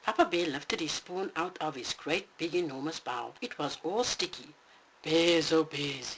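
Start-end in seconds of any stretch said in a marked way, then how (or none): 5.0-6.1 thunderclap voice. Acted. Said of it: "his voice was like a thunderclap".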